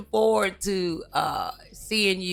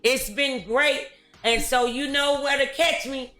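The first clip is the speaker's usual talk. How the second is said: show sign-off; 5 semitones higher than usual. Real, not acted. Host thanks guests and audience for the show, upbeat sign-off. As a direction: send the audience off with lifted, projected energy.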